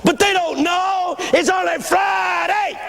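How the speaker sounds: high, slow, intoned preaching cry; imitated pastor at full tilt. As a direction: ride a stretched gospel cadence to a peak. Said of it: "Let's try one more time here".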